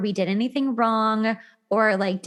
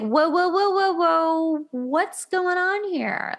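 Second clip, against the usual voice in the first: higher, startled whoas, slowing down; mock alarmed; 7 semitones higher, slower than usual. Host acting out someone spooked by desperation, startled. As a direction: recoil like someone overwhelmed by too much. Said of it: "we're gonna be like".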